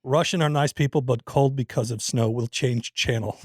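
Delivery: deliberate put-on Russian accent; comic Russian email-reading voice. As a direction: keep reading in a mock Russian voice. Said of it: "It's Russian".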